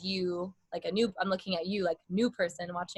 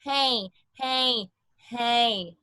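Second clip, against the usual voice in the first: forward placement, correct; kept forward; much slower than usual. Shown as a demonstration. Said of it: "it can stay forward".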